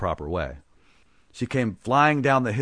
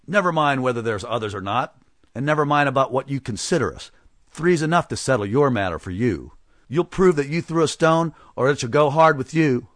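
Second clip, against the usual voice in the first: angry threat; 4 semitones higher, 4 dB louder than usual. Acted. Blacksmith threatening the stranger.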